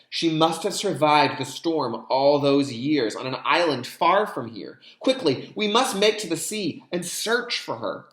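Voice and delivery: put-on excited old man. Old Feitu urging his family to search, eager. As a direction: urge the family to hurry to sea.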